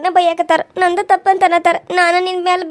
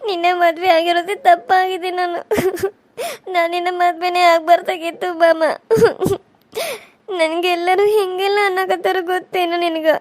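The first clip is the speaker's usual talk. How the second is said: tearful pleading to her husband; crying. Acted. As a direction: weep while blaming yourself. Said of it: "ನೀ ಹಿಂಗೆ ಅಳಾಕತ್ರ".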